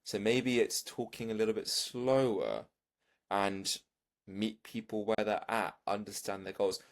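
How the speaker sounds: calm, slowed-down coaching tone. Shown as a demonstration. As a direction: ease off and slow it down. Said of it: "that's your tonality".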